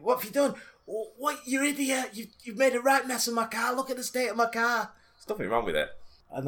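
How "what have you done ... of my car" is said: put-on high Irish old lady scolding, pitched well up. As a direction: nag like an angry little Irish granny. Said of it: "Irish accent".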